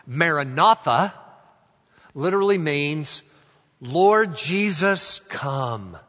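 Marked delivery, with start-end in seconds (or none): 3.8-6.0 slow, raised proclamation dropping on the last word; emphatic declaration. Shown as a demonstration. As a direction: proclaim it slowly and firmly. First meaning, voiced as an announcement.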